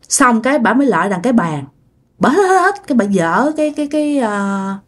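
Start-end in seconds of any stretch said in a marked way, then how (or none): 2.2-2.9 high-pitched mimed sniffs; imitated dog-like sniffing. Storyteller imitates the old woman nosing toward the table, dog-like sniffing. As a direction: sniff along like a searching dog. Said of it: "bả mới hít như chó".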